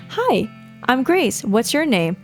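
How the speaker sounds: slow, sweet creepy doll; lightly voiced doll, eerily calm. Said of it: "his mouth begins to move".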